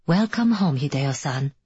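lightly voiced house computer; a hint of a smart-home system greeting; automated voice. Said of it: "an automated voice comes on".

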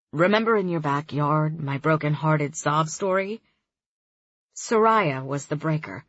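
easygoing guy on the phone; young man voice. Acted. Kareem voiced.

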